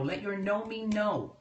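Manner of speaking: ordinary delivery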